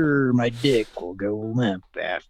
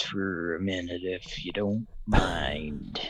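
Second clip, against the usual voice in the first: whisper; 7 semitones lower, 8 dB quieter than usual. Acted. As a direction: whisper it lecherously. Creepy whispered aside.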